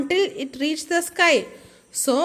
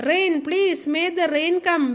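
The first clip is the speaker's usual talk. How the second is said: begging plea; 3 semitones higher than usual. Acted. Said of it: "begged the people".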